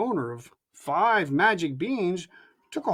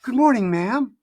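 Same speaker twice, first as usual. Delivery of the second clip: polite greeting; 4 semitones higher, 5 dB louder than usual. A narrator's reading. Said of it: "he said politely".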